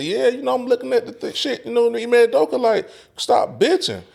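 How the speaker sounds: high mocking voice, stretched at the end; Mace impression. Retelling Mace's podcast take, high mocking impression. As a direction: play him lazy and sure of himself. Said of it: "This nigga Mace say".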